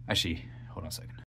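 winded after a tight crawl; catching breath between words. Real, not acted. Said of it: "Clearly out of breath from that crawl in".

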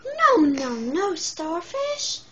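loud then very slow; firm scolding no. Acted. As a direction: stretch out the last no. Seaweed firmly corrects.

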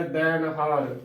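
ਦੈਣ ਹਾਰ with an open "dain", falling at the end; full-voiced vowel. Shown as a demonstration. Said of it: "ਭਰ ਕੇ ਬੋਲਣਾ ਹੈ".

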